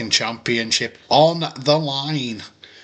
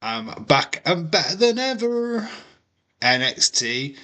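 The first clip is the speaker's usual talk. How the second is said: promo voice; 7 semitones higher, slower than usual. Acted. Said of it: "Bischoff promo".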